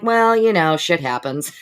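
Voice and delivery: high, loud, careless shrug-off; flippant shrug. Retold or imitated. Host mocks her own indifference to people, flippant. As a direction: brush it off like it's nothing. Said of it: "and I'm like".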